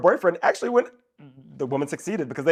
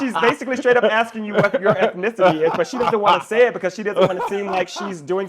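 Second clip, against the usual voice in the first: loud exasperated inner rant; 3 semitones higher, 6 dB louder than usual. Retold or imitated. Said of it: "I'm thinking to myself".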